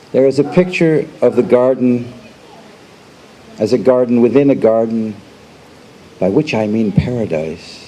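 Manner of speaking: measured recital with long pauses between phrases; poetry reading. Acted. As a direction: recite it line by line, letting each image stand. Reads own poem aloud.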